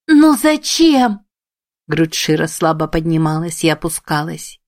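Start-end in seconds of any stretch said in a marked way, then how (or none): 0.1-1.2 high, loud, slow anguished wail; hysterical cry. A narrator's reading. Emi on the edge of hysteria over Shiro, wailing. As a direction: let it break into a wail. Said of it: "балансируя на краю истерики".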